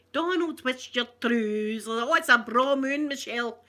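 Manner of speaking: lightly put-on Highland accent; hammed-up Highland Scots. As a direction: play a stage Highlander. Acting out a stock Highland Scot.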